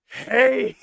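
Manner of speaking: excited laughter; laughing. Real, not acted. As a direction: laugh it out, hyped. Laughing after play.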